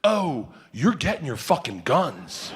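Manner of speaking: slow, deliberate vow; dead serious. Retold or imitated. Arms dealer insisting the guns will come, dead serious. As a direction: promise it slowly with total seriousness. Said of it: "looks at me dead serious".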